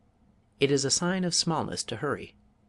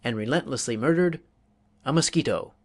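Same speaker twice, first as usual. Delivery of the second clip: mock grandiose declamation; 2 semitones higher, 3 dB louder than usual. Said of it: "proceeded in grandiose manner to a thrilling climax".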